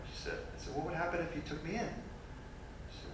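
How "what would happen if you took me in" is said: incredulous. Retold or imitated. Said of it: "I'm a little incredulous".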